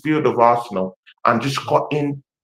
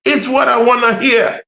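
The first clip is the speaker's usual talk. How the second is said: excited African accent; 7 semitones higher than usual. Real, not acted. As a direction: let your African accent burst through with glee. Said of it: "my African accent used to, you know, just, uh, blip".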